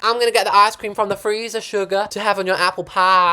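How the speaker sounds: lightly voiced sweet grandma. Grandma offers ice cream, a hint of sweet grandma voice. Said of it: "'Cause they're like".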